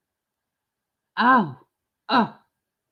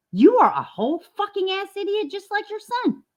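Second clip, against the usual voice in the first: angry insult; 13 semitones higher than usual. Real, not acted. Insulting the mother in the clip.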